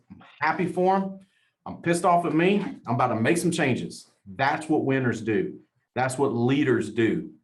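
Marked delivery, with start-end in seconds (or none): 0.1-4.1 winner talk. Retold or imitated. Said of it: "Winner talk goes".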